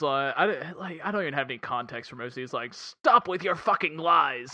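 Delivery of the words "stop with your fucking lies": Gary Oldman quote. Retold or imitated. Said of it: "Oldman saying it".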